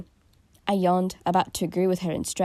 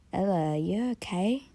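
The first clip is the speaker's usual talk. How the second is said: sleepy voice; 2 semitones higher than usual. Acted. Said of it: "I asked her in a sleepy voice".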